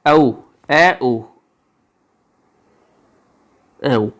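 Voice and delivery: sounding out औ, ए, उ one by one; vowel sounds. Shown as a demonstration. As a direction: break the vowel into its parts slowly. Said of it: "ये होता है कौम".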